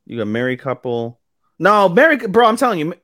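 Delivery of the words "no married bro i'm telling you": emphatic protest. Real, not acted. Arguing about episode order.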